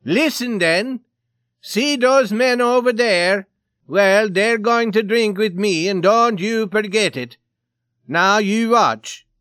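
high, loud blustering threat; crying out. A narrator's reading. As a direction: announce it loudly, stretching the words. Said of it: "cried the Swede".

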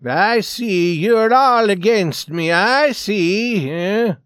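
loud, high accusation; betrayed Swede. Acted. Swede feels attacked by all.

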